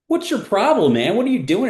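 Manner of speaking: high, loud imitation of annoyed fans; retelling fans yelling at a clueless announcer, mock heckle; mock heckling. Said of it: "people coming down to me at halftime going".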